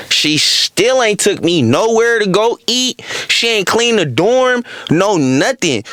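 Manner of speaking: high, slow, drawn-out grievance; indignant complaint. Real, not acted. Telling viewers she never kept her promise, indignant. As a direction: stretch out the broken promise in exasperation.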